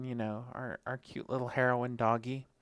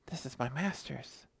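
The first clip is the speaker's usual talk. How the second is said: upset dog voice; 5 semitones higher than usual. Retold or imitated. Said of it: "she's like".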